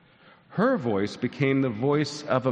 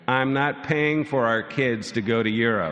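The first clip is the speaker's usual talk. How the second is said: firm, slightly raised objection; harsh refusal; 2 semitones higher, 4 dB louder than usual. Acted. Husband objecting to paying for the kids' Europe trip, mildly harsh. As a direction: refuse firmly, a touch harshly. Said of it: "Which sounds harsh".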